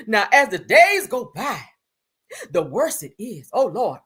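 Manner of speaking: hammed-up woeful reading, slow; a singer. Reading a singer's injury post aloud, overdramatic. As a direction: drag out the words in mock suffering. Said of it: "I gotta read it in her voice".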